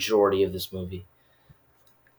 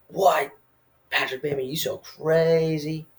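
mock amazement; 7 semitones higher than usual. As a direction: squeal it in playful disbelief. Mock reaction to Bateman's antics.

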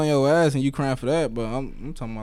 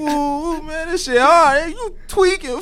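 laughing; slower than usual. Real, not acted. Laughing, high.

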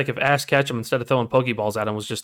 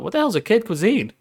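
quoting his daughter; 9 semitones higher than usual. Retold or imitated. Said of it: "and I quote".

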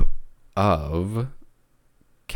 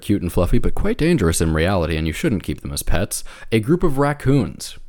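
sportscaster voice. Pretend. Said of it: "you are absolutely doing a sportscaster voice right now".

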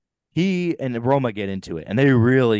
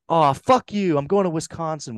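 mock pissed off; 6 semitones higher than usual. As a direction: imitate someone storming off angry. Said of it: "And he's so pissed".

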